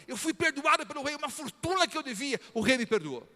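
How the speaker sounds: high, joyful exclamation; the forgiven servant delighting in the king's mercy; happy relief. Retold or imitated. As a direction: rejoice like a freed debtor. Forgiven man rejoicing.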